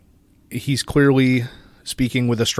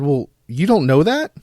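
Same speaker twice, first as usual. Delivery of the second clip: higher, playfully baffled cartoon dad voice; Chef's dad impression; 5 semitones higher, 3 dB louder than usual. Stringing along the scam caller, in character. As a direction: play the dad dumb and indignant. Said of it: "my best impression of Chef's dad".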